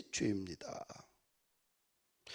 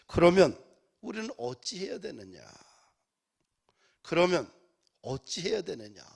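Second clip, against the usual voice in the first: retold crying out; 3 semitones higher, 5 dB louder than usual. Stricken listeners answering Peter, retold crying out. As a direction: burst out on the first word, then fall away. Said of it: "청중들이 이렇게 외쳐요".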